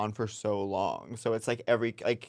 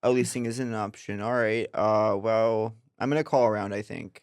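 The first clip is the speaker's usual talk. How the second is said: straight voice. Acted. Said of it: "what's your masochist voice".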